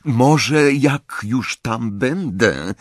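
slow, coaxing plea; a girl coaxing her sister; pleading. A narrator's reading. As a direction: try gently to win her over. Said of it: "błagalnym tonem".

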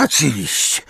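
high agreement climbing on the repeat; dawning understanding. A narrator's reading. Umbridge agrees with Hermione, catching on. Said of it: "z nutą zrozumienia".

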